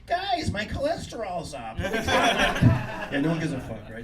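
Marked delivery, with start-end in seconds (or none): 0.1-1.8 laughing mock. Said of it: "you go out there with".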